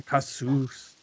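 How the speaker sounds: Cassous in an American accent. Shown as a demonstration. Host asking guest about his pronunciation, American accent. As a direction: say Cassous with American vowels, ending in plain s. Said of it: "Is that a total American accent to say".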